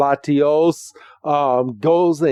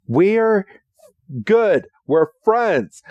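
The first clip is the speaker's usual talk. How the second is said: high, cutesy Pikachu voice; 5 semitones higher, slower than usual. Retold or imitated. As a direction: squeak it out like a tiny friendly Pikachu. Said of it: "Pikachu is like".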